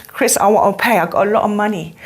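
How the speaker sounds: lightly imitated Cockney; Cockney accent. Student offers to pay her teacher, imitated Cockney accent. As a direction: mimic a Londoner's Cockney speech. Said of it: "in her Cockney accent".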